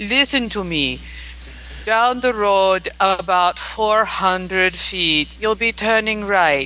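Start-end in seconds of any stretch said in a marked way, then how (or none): 1.9-6.7 put-on accent of an elderly Russian woman, grandmotherly. Imitating a car navigation voice, the speaker does an old Russian grandmother accent. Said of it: "old Russian Grandmother".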